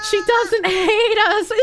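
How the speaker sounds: slow, high words through real laughter; laughing. Real, not acted. Streamer reading chat, laughing through the words. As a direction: squeeze it out while cracking up.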